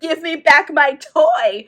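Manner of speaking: slow, loud whiny demand; toddler tantrum. Retold or imitated. Stefan throwing a toddler tantrum at Triana, loud and whiny. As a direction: stamp your feet like a spoiled kid. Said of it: "back to toddler temper tantrum".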